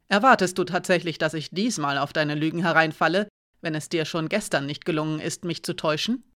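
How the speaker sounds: a hint of a menacing guard; lightly voiced threatening soldier; stern guardswoman. Guardswoman keeps pressing.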